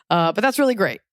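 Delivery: talking while lying in bed; relaxed, lying flat in bed. Real, not acted. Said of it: "I sound weird 'cause I'm laying down".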